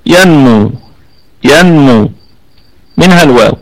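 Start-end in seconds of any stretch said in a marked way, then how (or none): 0.0-2.1 ينمو recited carefully, the نون clear; tajweed demo. Shown as a demonstration. Teacher recites the letters ينمو for students. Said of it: "إدغام بغنة من حروف".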